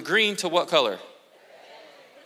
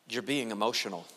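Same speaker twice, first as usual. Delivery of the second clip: low, soft mock put-down; dismissive; 6 semitones lower, 6 dB quieter than usual. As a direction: quote a mild, dismissive judgement. Quoting dismissive remark about emotions.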